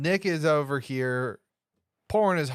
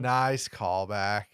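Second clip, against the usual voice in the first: deadpan; 4 semitones lower, much slower than usual. Retold or imitated. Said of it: "And you're like".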